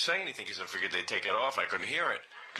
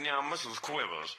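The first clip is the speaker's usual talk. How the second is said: the Dwayne voice; slower than usual. Pretend. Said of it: "I was calling you Missus Quivers".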